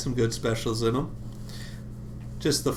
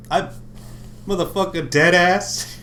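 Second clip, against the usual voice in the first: talking around a vape; mumbling with a vape between lips; vape in mouth; 6 semitones higher than usual. Real, not acted. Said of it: "I stock a vape in my mouth".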